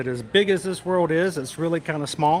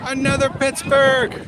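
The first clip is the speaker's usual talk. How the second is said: high, loud, slow hammed-up Pittsburgh accent; 9 semitones higher, 5 dB louder, slower than usual. Greeting a Pittsburgh viewer in a hammed-up Pittsburgh accent. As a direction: stretch out Pittsburgh in a jokey Pittsburgh accent. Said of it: "uh, accent".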